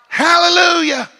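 a crying shout of praise; shouted hallelujah. Real, not acted. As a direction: let the hallelujah ring out. Climax of sermon cry.

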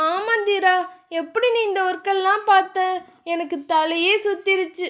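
a hint of an exhausted girlfriend whining; lightly voiced tired heroine; tired young woman, complaining. Dhiya voiced by narrator.

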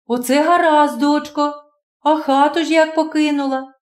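put-on a caring landlady reassuring the girl; kindly landlady.

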